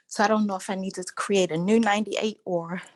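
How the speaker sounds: breathless from walking; catching breath between words. Real, not acted. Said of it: "I'm sorry, I'm out of breath".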